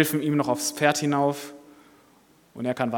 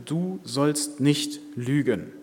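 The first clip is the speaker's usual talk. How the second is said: inner voice; much slower than usual. Acted. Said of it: "wieder die Stimme".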